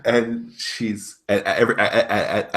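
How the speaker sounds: laughing through the words; amused laughter breaking in. Real, not acted. GM laughing at the player's eager reply.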